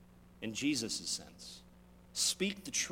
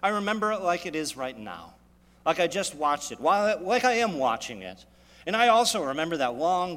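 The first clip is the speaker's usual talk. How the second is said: louder, stern recounting as God; voicing God; 5 dB louder than usual. God answers a boasting sinner, loud and stern. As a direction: let God's voice rise, firm and unhurried. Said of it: "he could easily reply".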